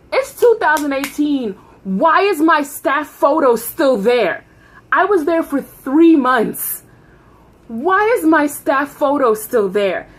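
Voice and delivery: breathless gossipy storytime. Real, not acted. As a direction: rant about it in disbelief. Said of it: "breathless gossipy storytime".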